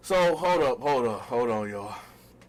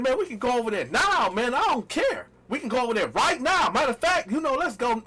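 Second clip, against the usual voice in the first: bold bluff; 4 semitones higher than usual. Retold or imitated. Bluffing confidence to girlfriend.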